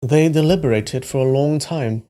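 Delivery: attempted English accent. Shown as a demonstration. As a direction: try narrating in an English accent. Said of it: "I can try an English accent".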